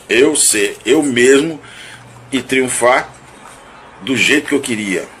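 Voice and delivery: ordinary talk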